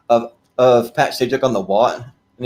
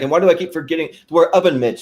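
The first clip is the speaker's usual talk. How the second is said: Ed Grimley whine; 5 semitones higher, faster than usual. Retold or imitated. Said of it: "he's like".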